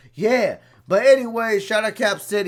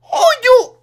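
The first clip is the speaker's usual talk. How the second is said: exasperated cry; 13 dB louder than usual. Real, not acted. Ranting, voice cracking high.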